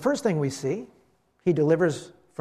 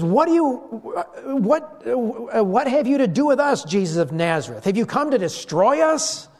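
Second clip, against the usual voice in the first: higher-pitched mock cry of a demon; retold shout, pitched up; demon's outcry; 5 semitones higher than usual. Preacher voices the demon challenging Jesus, crying out. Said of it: "So the demon shouts out".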